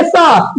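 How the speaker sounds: "स" as a drawn-out phonic sound; simple letter sound. Shown as a demonstration. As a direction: demonstrate the basic sound "स" slowly. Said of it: "ये आपका simple sound है".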